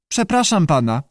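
high squawky apology; screechy voice. A narrator's reading. Unseen salamander excuses itself to the director, screechy. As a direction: squawk it politely. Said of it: "powiedział skrzykliwy głos".

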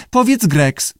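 high-pitched lizard echo; high talking-lizard repeat; lizard parroting. A narrator's reading. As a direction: parrot it back in a high creature voice. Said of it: "powtórzył jaszczur".

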